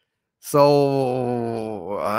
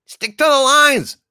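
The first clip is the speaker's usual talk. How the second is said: high, loud burst of irritation; exasperated scolding; 11 semitones higher, 4 dB louder than usual. Acted. Host scolding sidekick for ad-libbing, exasperated. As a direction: snap your acting partner back to the script.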